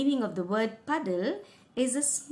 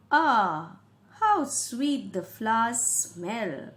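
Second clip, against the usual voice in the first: delighted sigh; 4 dB louder, slower than usual. Acted. King sniffs the flowers.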